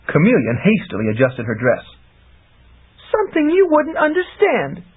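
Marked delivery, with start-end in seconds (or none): 3.1-4.8 put-on higher young woman's voice, wise and secretive; knowing. A narrator's reading. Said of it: "with purely female insight".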